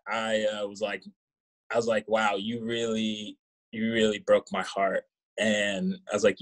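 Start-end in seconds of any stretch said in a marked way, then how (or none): 2.1-5.0 slow, drawn-out fake hurt; mock heartbreak. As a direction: stretch the wow like a wronged lover.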